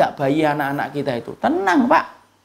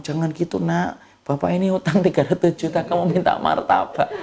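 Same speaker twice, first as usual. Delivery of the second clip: mock father's plea. Voicing indebted father to child.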